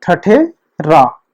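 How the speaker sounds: ठठे रा spoken very slowly, syllable by syllable; slow spelling out. Shown as a demonstration. Teacher spelling a word for students, slow. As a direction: drag out ठठे रा so students can follow. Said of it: "तो ये हो गया".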